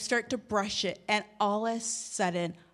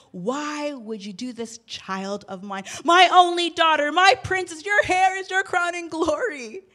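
devastated plea; 3 semitones higher, 4 dB louder than usual. Retold or imitated. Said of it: "I was so devastated".

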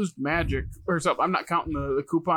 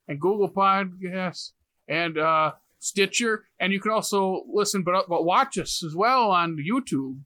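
slow, deliberate listing of platforms; podcast outro plug. Acted. Host signing off, slowly listing platforms. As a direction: announce where to find the show.

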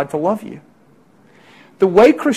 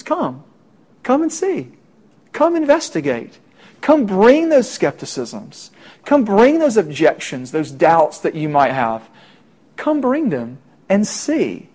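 gentle invitation; 3 semitones higher than usual. Retold or imitated. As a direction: coax him to come and look. Philip invites doubter gently.

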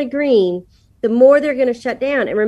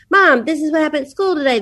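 fast, eager rush; chatty daughters; 4 semitones higher, faster than usual. Retold or imitated. Daughters bursting through the door, fast and eager. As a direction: gush it out quickly like a kid home from school. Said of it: "They're talking ninety to nothing".

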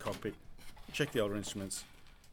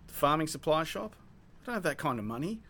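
higher, louder exasperated sputter; sputtering frustration; 8 semitones higher, 4 dB louder than usual. Acted. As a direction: spit out the complaint, fed up.

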